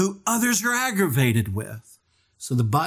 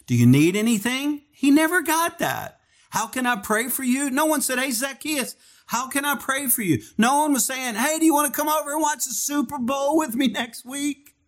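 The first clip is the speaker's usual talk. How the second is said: kind offers; 10 semitones higher than usual. Retold or imitated. Imagined kind offers to Zacchaeus.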